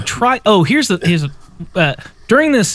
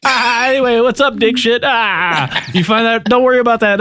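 higher, offhand mock boss; breezy phone boss; 7 semitones higher than usual. Film fan playing the boss on the phone, breezy. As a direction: toss it off high and breezy.

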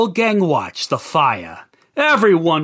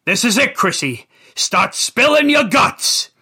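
warning; 6 semitones higher than usual. Acted. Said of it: "Rich warned him".

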